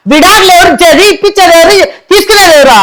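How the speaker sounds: crying through the angry questions; tearful rant. Acted. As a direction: let the sobs break into the protest. Wife rants tearfully at lawyer.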